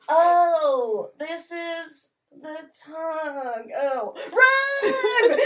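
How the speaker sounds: Sandy Cheeks Texas twang, shouted; hammed-up Texas drawl, high and loud; Texas accent. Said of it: "Is that your impression of a Texas accent?".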